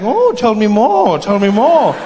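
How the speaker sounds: slow, drawn-out mock fascination; sarcastic interest. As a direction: egg them on with knowing sarcasm. Sarcastic Native American listeners.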